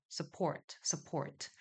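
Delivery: support 첫 음절을 조용히 흘리듯; 약하게 스포트처럼; soft light su. Shown as a demonstration. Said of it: "살짝 흘리듯이 하면 돼요". (작게 흘리는 발음 시범)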